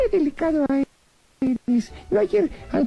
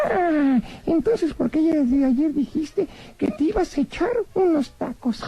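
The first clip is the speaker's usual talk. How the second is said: lightly voiced cheeky rabbit puppet; a cheeky little bunny teasing the magician; voz de conejito títere pícaro.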